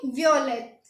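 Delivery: वियोलेट said vyo-let, French style; French pronunciation of वियोलेट; French violet. Shown as a demonstration. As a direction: glide through the start of वियोलेट as vyo. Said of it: "क्या बोलेंगे?".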